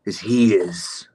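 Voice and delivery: slow unvoiced whisper of a jab. Streamer whispering a jab about the hotel owner to chat, slow whisper. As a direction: breathe the insult out slowly.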